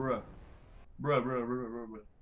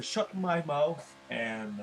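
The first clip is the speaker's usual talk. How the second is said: mock American accent; much slower than usual. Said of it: "mon accent américain".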